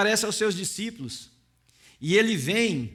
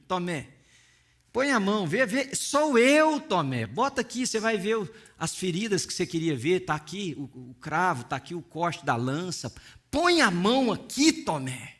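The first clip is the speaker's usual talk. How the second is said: gentle invitation; 3 semitones lower than usual. Retold or imitated. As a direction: coax him gently to touch. Jesus gently invites Thomas.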